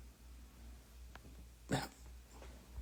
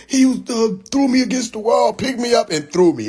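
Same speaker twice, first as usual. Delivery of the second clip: mock tattling; 8 semitones higher than usual. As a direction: imitate a brother tattling in a raised pitch. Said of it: "That's what he said".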